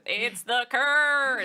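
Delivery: slow, loud deadpan line; deadpan Dale voice. Retold or imitated. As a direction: drag it out flatly like Dale. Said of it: "the deadpan Dale voice".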